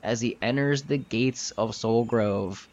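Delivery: slow, measured narration with weighty pauses; game master scene setting. Acted. Game master shows players the gates of Soul Grove, slow narration. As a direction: draw out the grand reveal.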